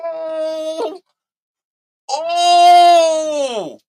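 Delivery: high shrieking laugh into a loud oh; screaming laughter. Real, not acted. Watching Diva shut the men down, a high shrieking laugh. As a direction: lose it laughing.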